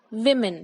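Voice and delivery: women said "विमिन", both vowels short like i; teacher's model: "women" as "विमिन"; correct pronunciation. Shown as a demonstration. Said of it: "इसको हम बोलते हैं". (सही उच्चारण: women को "विमिन" बोलें)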